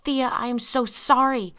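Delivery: high, loud, slow apology; yelled apology. A narrator's reading. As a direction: shout sorry desperately. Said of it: "Andy yelled".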